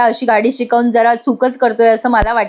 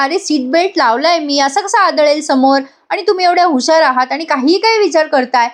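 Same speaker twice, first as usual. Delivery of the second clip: mildly exasperated, pitched higher; mild irritation; 4 semitones higher than usual. Acted. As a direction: act out a touch of impatient disbelief. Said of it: "Parth तिच्यावर चिडचिड करत असतो". (हलकी चिडचिड, चढा सूर)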